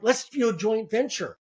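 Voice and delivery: rushing to pitch deals, fired up; keen mock enthusiasm with repeated starts; excited. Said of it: "I get excited and I'm like".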